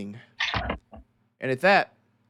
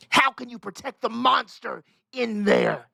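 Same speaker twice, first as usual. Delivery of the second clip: crowd shout; 10 semitones higher, 4 dB louder than usual. Acted. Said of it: "you hear a shout from the crowd".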